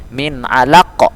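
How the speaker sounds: "min alaq" ending on an echoing, bounced q; qalqalah at a stop. Shown as a demonstration. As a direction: stop on "alaq" with the q popped into a short echo. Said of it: "menjadi sukun".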